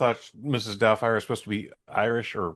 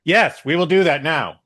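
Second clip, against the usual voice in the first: loud, high, slow emphatic yes; mock-eager agreement; 6 semitones higher, 7 dB louder than usual. Storyteller acting out his answer to a woman, mock-eager. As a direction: punch it out with comic over-eagerness.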